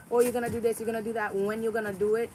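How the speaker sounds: a hint of a mocking nag; lightly parroting what they tell her; mimicking a nagging voice. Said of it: "telling me".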